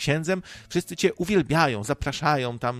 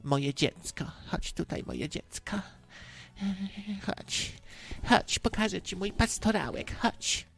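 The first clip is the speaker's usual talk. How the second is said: soft, coaxing mock priest, sometimes higher; creepy priestly voice; 6 semitones higher, 7 dB quieter than usual. Priest calling a child to come closer, creepy priestly voice. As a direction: beckon softly with oily tenderness. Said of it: "takim właśnie księżowskim głosem".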